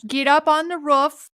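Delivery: loud, hammed-up Minnesota accent. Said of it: "am I reading in my Minnesota accent?".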